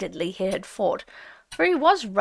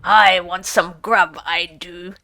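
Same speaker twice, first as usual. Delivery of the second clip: common way; 4 semitones lower, 5 dB louder than usual. A narrator's reading. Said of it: "in a rather common way he had of speaking".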